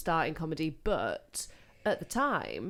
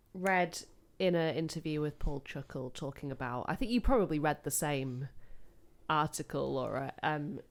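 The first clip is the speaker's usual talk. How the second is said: low and soft, nearly whispered; low quiet voice; 5 semitones lower, 4 dB quieter than usual. Shown as a demonstration. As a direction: hush it down low. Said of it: "I was talking like this".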